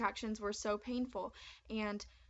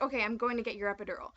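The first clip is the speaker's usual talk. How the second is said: angry; 5 dB louder, faster than usual. Retold or imitated. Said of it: "He was angry".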